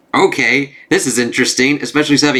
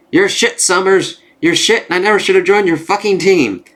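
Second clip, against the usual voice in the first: mock angry insult; 7 semitones higher than usual. Quentin insulting Scott, comic read.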